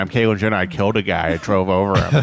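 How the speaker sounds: goofy cartoon dad impression; lightly voiced sitcom cartoon father; Peter Griffin. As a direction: carry on as the dim animated dad. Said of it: "Peter Griffin".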